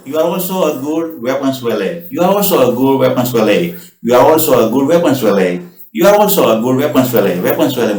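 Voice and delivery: each word said slowly and clearly for learners; slow, careful copy of the movie line; slow repetition drill. Shown as a demonstration. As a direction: spell it out slowly so students can copy. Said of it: "वो बोलने की practice करनी है".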